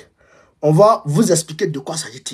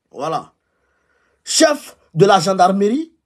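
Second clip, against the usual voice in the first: official report reading; 3 semitones higher than usual. Shown as a demonstration. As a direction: read the intelligence report aloud. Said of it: "je vais vous donner lecture du rapport".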